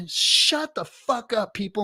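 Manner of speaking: slow it right down to shut them up; exasperated outburst. Real, not acted. Streamer ranting at pessimists in chat, slow exasperated outburst.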